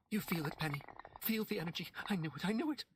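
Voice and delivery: a mother certain of a miracle; wild excitement. A narrator's reading.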